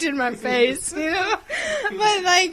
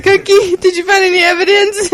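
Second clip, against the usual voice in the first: cartoon detective; 4 semitones higher, 5 dB louder than usual. Acting cartoon crime-fighter's question.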